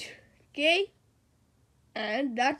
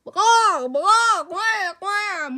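loud mocking monkey and duck calls; animal noises; 3 semitones higher, 6 dB louder than usual. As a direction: squawk like silly animals. Kids making animal noises.

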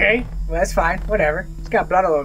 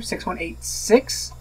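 unsure guess; 3 dB quieter, slower than usual. Real, not acted. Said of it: "I'm gonna go with that's a six".

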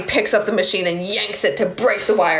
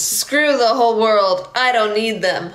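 yelling; 4 semitones higher, slower than usual. Acted. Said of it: "He yells".

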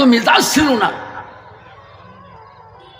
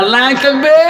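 rising, swelling shout; rallying takbir call; 5 semitones higher than usual. Real, not acted. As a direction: lift the cry higher to rouse the crowd. Preacher calls crowd to takbir.

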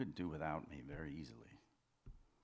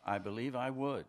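louder, higher insistence; insistent; 4 semitones higher, 6 dB louder than usual. Acted. Man defending his promise to his doubting lover, insistent. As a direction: push it out loudly, pitch lifted.

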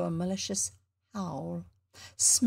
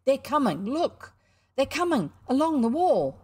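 put-on boyish chatter building to an excited cry; lively boy voices; 3 semitones higher than usual. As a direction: schoolboys bursting with excitement. Boys' voices in the story.

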